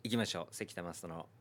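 screaming at the top of the lungs; Sunshine Ikezaki shout. Acted. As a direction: belt it out like a comedian's catchphrase. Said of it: "長い長い長い長い。".

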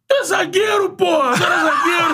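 high, strained yelling; angry shout. Retold or imitated. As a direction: yell it like a heated bench argument. Retold heated dugout argument.

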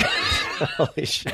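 high squeal of laughter through words; laughing disbelief. Real, not acted.

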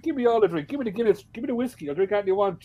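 high-pitched, hammed-up clamouring; mock eager demands. Irishman giving in to offered drinks, mock eager demands.

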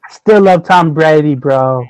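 put-on Boston bro talk; mock Boston accent. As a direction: imitate a boastful Boston fan. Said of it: "they put on their Boston accent".

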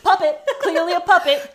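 loud mock insistence. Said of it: "he just goes".

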